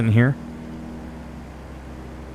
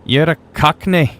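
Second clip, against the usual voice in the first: higher-pitched, cringey attempt at a Cockney accent; hammy, muddled mock-Cockney accent; botched accent; 6 semitones higher, 3 dB louder than usual. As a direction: put on a badly faked Cockney accent. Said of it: "Don't ask me what accent that was".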